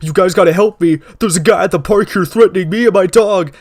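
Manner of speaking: high, frantic cries for help; damsel in distress. Retold or imitated. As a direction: play the helpless victim, panicked. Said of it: "sounding like a goddamn damsel in distress, being like".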